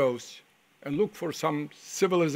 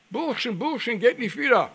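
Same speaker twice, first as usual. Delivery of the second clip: higher and louder warning call across the field; calling out from afar; 7 semitones higher, 6 dB louder than usual. Retold or imitated. Older farmer warning boys away from soldiers, loud high call. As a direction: shout a warning to the boys from a distance. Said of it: "a man yells at us".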